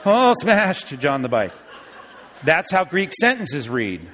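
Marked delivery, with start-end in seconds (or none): 0.1-1.5 mock dismay. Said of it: "say to my wife if it was a bad accident".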